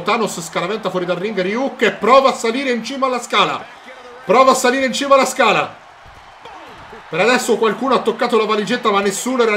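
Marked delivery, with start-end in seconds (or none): 4.2-5.7 louder, faster excited call; excited shout. Real, not acted. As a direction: shout it as the action builds. (grido eccitato)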